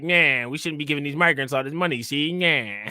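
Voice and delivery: imitating a grandparent's thick old-school New York accent. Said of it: "They got that accent".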